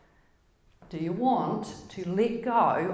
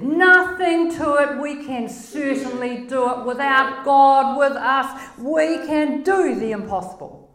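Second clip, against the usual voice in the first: loud, cocky bravado; swaggering loud boast; boastful spies; 4 semitones higher, 5 dB louder than usual. Retold or imitated. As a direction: brag that it is easy. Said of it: "And they said".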